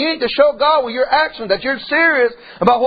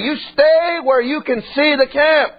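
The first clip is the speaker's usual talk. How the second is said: dad's warning; 5 semitones higher than usual. Retold or imitated. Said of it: "my dad would say".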